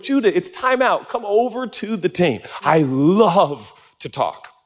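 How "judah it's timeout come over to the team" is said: imitating coach. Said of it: "I'd be like".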